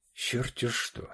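тихо, сквозь зубы, без голоса; сдержанно цедит от злости; процедил сквозь зубы. Acted. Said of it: "процедил Олег сквозь зубы". (цедит сквозь зубы, едва слышно)

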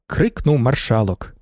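ordinary delivery, nothing marked

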